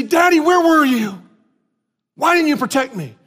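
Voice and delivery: imitating a small son calling for daddy after a fall; crying little boy. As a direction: whimper it like a hurt child. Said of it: "He'd start crying. He'd say".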